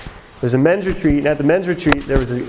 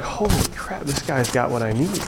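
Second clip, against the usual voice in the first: retold awe, softly to himself; hushed amazement; 2 semitones lower, 6 dB quieter than usual. Listener realizing this guy has the answer, hushed awe.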